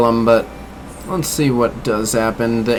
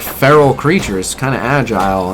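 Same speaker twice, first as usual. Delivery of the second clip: ordinary talk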